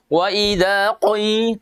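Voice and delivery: "qi" sunk into the throat as "qoi"; teacher shows the overdone throat sound; too-deep qi. Shown as a demonstration. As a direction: imitate the overly deep qi. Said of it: "terlalu dalam biasanya ada".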